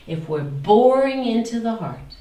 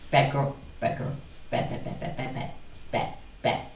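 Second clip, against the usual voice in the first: a self-scolding chant that fades to a whisper; fading whisper; 4 semitones lower, 6 dB quieter, faster than usual. Acted. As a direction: let the scolding die away to breath.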